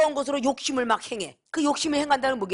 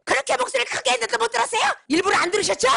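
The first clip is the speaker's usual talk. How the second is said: mock angry accusation; 10 semitones higher, faster than usual. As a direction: snap back like an elder who feels ignored. Offended person scolding someone who ignored them.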